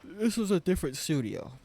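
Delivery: talking through a yawn. Real, not acted. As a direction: say it mid-yawn. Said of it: "Sorry, I'm yawning".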